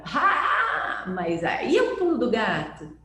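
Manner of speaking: a sudden breakthrough cry; eureka. Retold or imitated. Researchers shouting their discovery in excitement.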